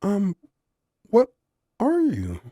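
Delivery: sincere question. A narrator's reading. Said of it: "she asked with sincerity".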